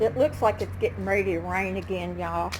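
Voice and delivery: winded, talking between breaths; breathless after the climb. Real, not acted. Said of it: "I'm out of breath".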